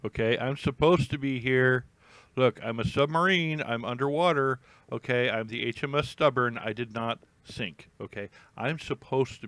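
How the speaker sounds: loud, indignant submarine protesting it did not sink; mock submarine voice. Vlogger voices the sub HMS Stubborn, indignant and loud. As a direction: play the offended submarine, hammed-up and loud.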